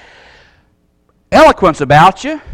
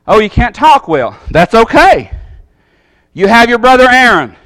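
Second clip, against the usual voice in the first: gentle and kind, comforting Moses; reassuring God. Pretend. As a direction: reassure him like a patient father. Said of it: "Is that how it went? No".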